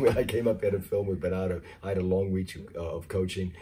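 raspy, worn-out voice; hoarse voice. Real, not acted. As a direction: talk through a tired, hoarse throat. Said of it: "I truly apologize for my voice".

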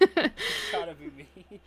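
shrill, drawn-out mocking echo; mocking high voice. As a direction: squeal it back, slowly and high. Echoing in a high, loud voice.

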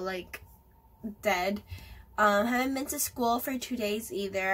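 stuffy, blocked-nose voice; talking through a head cold; nasal voice. Real, not acted. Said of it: "sorry if I sound a little nasally or sick".

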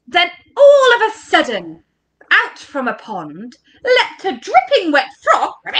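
lively, suspenseful story narration; animated picture-book reading; reading to children. Acted. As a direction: punch up the surprise for little listeners.

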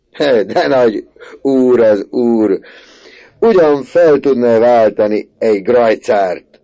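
loud, slow, high sneer; mocking. A narrator's reading. Uncle mocking proud Misi, loud slow sneer. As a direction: tease him as a grand gentleman.

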